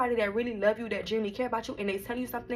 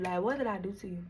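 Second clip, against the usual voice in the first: softer, hurt repeat; quieter repeat; 5 dB quieter, faster than usual. Retold or imitated. Repeating the question to her sister, softer. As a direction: let it fall away, hurt.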